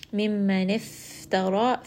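chanted Quranic recitation. Acted. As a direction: recite the ayah in tajwid style.

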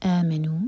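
آمنوا ending on u, final alif not sounded; silent final alif. Shown as a demonstration. Teacher shows آمنوا without the final alif. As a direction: stop آمنوا on the u. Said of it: "تو پڑھا جائے گا".

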